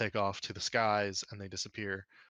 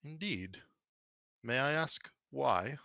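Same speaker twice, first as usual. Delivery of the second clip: raised eyebrow; 4 semitones higher, slower than usual. Acted. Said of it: "raises an eyebrow towards you and says".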